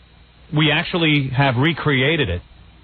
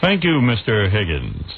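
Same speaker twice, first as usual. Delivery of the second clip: Peter Jennings. Acted. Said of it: "me as Peter Jennings".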